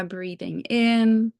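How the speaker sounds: slow breathing cue. Shown as a demonstration. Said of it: "let's do one more".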